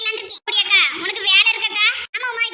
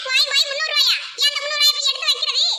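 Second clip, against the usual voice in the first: indignant echo; 3 semitones higher than usual. Acted. Indignantly echoes the debtor's dismissal.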